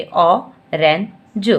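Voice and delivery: "ऑरेंज" stretched very slowly, rising at the end; slow blended word. Shown as a demonstration. Teacher blending the word for a child, slowly. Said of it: "फिर इकट्ठे बोलिए".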